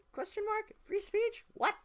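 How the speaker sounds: sarcastic disbelief. Pretend.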